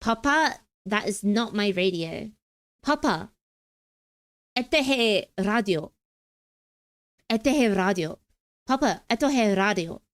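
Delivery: put-on Russian accent, learner's recitation; Russian phrase. Shown as a demonstration. Streamer repeating a Duolingo line, imitated Russian accent. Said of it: "So in Russian, I know how to say".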